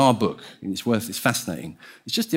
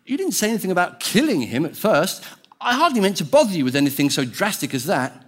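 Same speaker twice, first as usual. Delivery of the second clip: higher, protesting ghost voice; flustered ghost; 7 semitones higher than usual. Acted. Ghost objecting to the angel's offer to kill, flustered. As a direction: voice a ghost backing out, pitched up.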